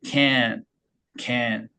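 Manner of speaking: "can" from deep back where h is made; "can" with an airy k from the back; deep back-placed k. Shown as a demonstration. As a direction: start "can" deep in the throat. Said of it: "하 위치에서".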